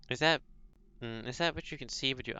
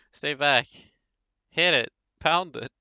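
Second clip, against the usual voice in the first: angry mob shouting; 8 dB louder, slower than usual. Acted. Voicing angry mob attacking.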